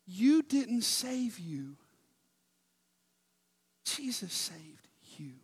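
breathy pulpit whisper. Acted. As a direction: lean in and whisper the truth. Preacher drops to intimate truth.

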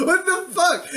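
mock-incredulous, pitched well up; retold shock. Player reacting to the vampire's suggestion, mock shock.

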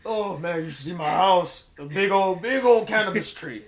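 lightly voiced stoner; a hint of stoner impression; Seth Rogen. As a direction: boast like a dazed stoner. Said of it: "Can you do Seth Rogen?".

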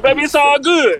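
lightly voiced smooth talker; smooth lover voice. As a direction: purr it like a ladies' man. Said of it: "He take his legs off like".

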